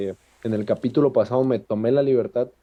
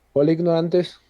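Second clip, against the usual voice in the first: light, friendly hello, pitch raised; friendly greeting; 6 semitones higher than usual. Shown as a demonstration. Podcast host greeting his listeners, friendly and light. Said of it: "usada en una entonación diferente".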